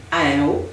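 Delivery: AHEO said briefly without tonal stress; a toneless, unstressed AHEO; monotone. Shown as a demonstration. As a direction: leave the melody out of AHEO. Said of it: "si vous le dites de façon monocorde".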